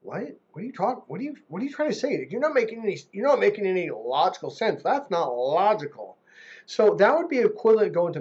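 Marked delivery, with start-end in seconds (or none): 0.0-6.2 pitched-up, fast, bewildered questioning; mock exasperated confusion, pitched up; baffled guy. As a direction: play a man who can't follow her at all. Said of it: "men are like".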